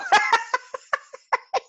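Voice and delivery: sudden high giggle; high laugh. Real, not acted. Host breaks into a laugh after warning chat.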